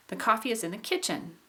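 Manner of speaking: emphasis on the "ki" of "kitchen", then drop; rise-fall landing on "kitchen"; tonic stress on KITCHEN. Shown as a demonstration. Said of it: "primary stress in kitchen is on the ki".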